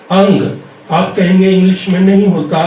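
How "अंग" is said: अंग said louder, ending on a clear ng; ng sound demo. Shown as a demonstration. Teacher correcting the book spelling, saying अंग with a clear ng. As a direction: stress अंग and ring out the final ng. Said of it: "इसकी actual sound क्या है".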